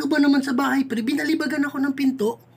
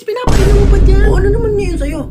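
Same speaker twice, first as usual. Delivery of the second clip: loud heated yelling; angry shouting; 3 semitones higher, 10 dB louder than usual. Acted. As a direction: shout back in anger.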